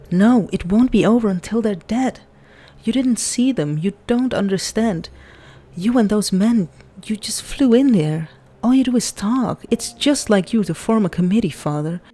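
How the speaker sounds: upset daughter. Acted. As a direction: throw it at him, hurt and defiant.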